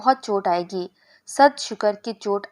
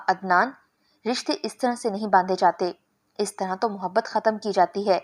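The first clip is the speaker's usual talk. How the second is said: angry. Acted. Girl scolds Adnan for grabbing her hand, mildly angry. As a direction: scold him, starting sharp then steadier. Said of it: "مجھے غصہ آ گیا".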